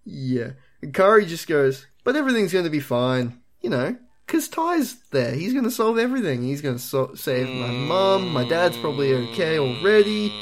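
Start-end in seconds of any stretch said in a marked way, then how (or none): 2.0-10.3 lightly voiced hopeful kid; earnest little kid, slowing down; naive kid voice. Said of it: "doing a Matt impression".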